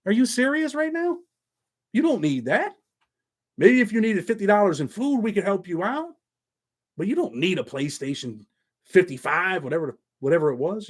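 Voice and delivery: disbelieving, pitch jumping up on serious; retelling his reply to a greedy fan, incredulous. Retold or imitated. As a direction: scoff at the request in disbelief. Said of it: "I'm like".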